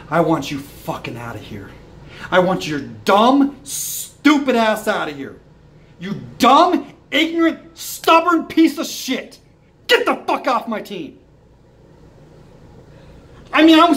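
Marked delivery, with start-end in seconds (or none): 0.1-11.2 angry rant. Real, not acted. Fan ranting at the coach to get off the team, angry. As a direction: tear into the coach, word by word.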